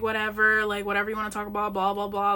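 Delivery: mimicking a dismissive "whatever"; mock smug brush-off; imitated attitude. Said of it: "having an attitude".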